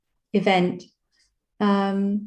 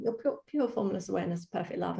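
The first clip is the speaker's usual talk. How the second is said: hushed, as if thinking to oneself; inner thought; 11 dB quieter, faster than usual. Retold or imitated. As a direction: say it softly, under your voice. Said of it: "I'm in my head".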